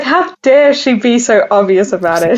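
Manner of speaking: playful outrage with a laugh in it; hammed-up affront through giggles; mock indignation. Podcaster jokingly voices an offended agent, mock indignant. Mocking the goof writer's outrage.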